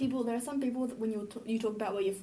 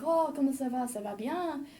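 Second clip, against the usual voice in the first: higher, eager French small talk; excited French greeting; 4 semitones higher than usual. Retold or imitated. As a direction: greet a newfound fellow French speaker eagerly. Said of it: "I got freaking excited".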